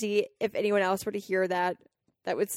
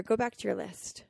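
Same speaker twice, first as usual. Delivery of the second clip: inner voice; 5 dB quieter than usual. Retold or imitated. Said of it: "And I hear".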